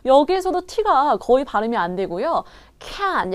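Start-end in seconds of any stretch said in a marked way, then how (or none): 2.8-3.3 "Can" squeezed out with the final T barely sounded; squeezed can't. Shown as a demonstration. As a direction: squeeze the vowel of "Can", swallow the T. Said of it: "약간 쥐어짜는 듯한 발음이 났습니다". ("Can"을 쥐어짜듯, T는 거의 없이)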